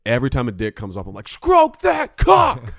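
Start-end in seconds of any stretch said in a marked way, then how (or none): 1.3-2.7 full screaming chant, high and drawn out; slow, high-pitched shouted cheer; rooting on. Retold or imitated. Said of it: "I root 'em on".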